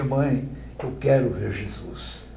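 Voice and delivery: put-on soft, tearful plea from a sick child; crying child. Sick child begging his mother, quietly tearful. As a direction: let the child's longing crack through quietly.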